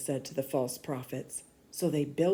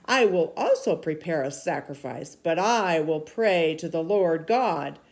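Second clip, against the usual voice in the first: a firm, louder prophet's voice; stern prophet rebuking; 5 dB louder than usual. Acted. Elijah rebuking King Ahab, stern and loud. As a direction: scold the king like a bold prophet. Elijah explains his plan.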